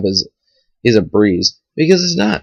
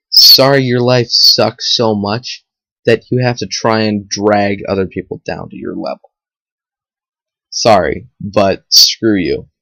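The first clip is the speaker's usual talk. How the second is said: sarcastic. Pretend. Tells off people who drag him down.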